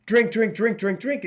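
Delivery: the craving voice hammering the word drink; a mild mock yell from the addiction; mock screaming craving. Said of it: "this other voice that's screaming".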